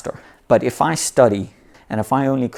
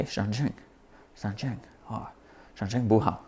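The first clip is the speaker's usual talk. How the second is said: hushed, inward repeating of the Chinese word; murmured to yourself, much softer; musing quietly; 10 dB quieter than usual. Shown as a demonstration. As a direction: savour the word under your breath. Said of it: "really feel it".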